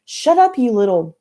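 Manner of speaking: very high, loud shout; furious shout. A narrator's reading. Kelly shouts at the screaming new girl, furious.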